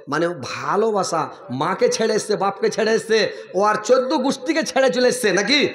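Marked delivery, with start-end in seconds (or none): 1.5-5.7 builds higher and louder line by line; rising emphatic appeal. Real, not acted. Preacher to husbands, voice climbing with fervour. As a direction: drive the point home, climbing.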